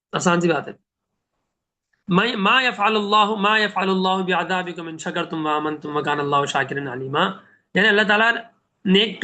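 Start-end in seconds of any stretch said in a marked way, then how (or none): 2.1-7.3 slow, melodic tajweed recitation; Quran recitation. Acted. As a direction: recite the verse slowly and reverently. (آہستہ قرآنی تلاوت)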